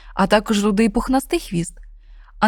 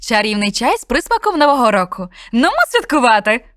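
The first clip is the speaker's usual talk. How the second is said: sly witch voice; 3 semitones higher, 4 dB louder than usual. Acted. Witch tempts the snowman with tea, lightly sly. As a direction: lure the snowman with sugary charm.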